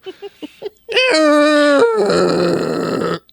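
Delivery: big burst of laughter; loud laugh. Real, not acted. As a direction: crack up loudly. Laughs at his own joke.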